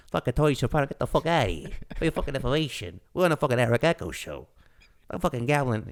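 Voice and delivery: loud, brash mob boss impression; Tony Soprano. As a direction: bluster it out like an angry mobster. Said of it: "my favorite one".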